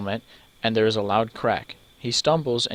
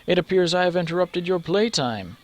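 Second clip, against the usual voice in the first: amused brute; 7 semitones higher than usual. Acted. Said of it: "he laughs heartily".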